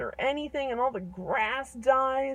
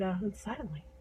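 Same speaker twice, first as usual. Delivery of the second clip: ordinary delivery, nothing marked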